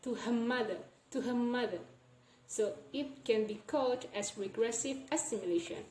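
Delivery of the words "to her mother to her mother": "to her mother" with the R swallowed into the M; "her mother" gliding straight onto M; assimilated linking. Shown as a demonstration. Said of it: "we change it to the M sound".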